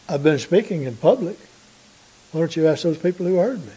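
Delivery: understated calm, softly reasoning; calm, polite. Retold or imitated. Jesus answering his questioner about his teaching, retold calmly and politely. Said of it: "Jesus very calmly and very politely says".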